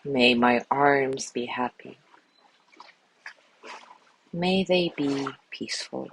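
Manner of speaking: calm, measured voice with long pauses; guided meditation. Acted. Teacher guiding listeners through a loving kindness body scan, calm meditation voice. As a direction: lead them gently through each phrase, leaving space after it.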